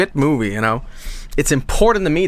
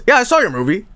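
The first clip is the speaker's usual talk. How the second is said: hammed-up German accent, raised pitch; gushing fake praise in a thick German accent; German impersonation; 8 semitones higher, faster than usual. The speaker playing Germa praising his movie in a German accent. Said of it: "German impersonation".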